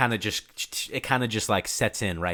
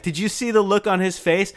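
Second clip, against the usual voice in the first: higher, breathless giddy question; excited laughing quote; 9 semitones higher, 4 dB louder than usual. Retold or imitated. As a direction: say it while cracking up. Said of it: "he's like".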